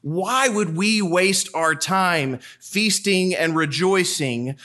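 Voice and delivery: lightly voiced indignant critic of Jesus; a hint of a self-righteous scold; scoffing objector. Voicing a scoffing objector again.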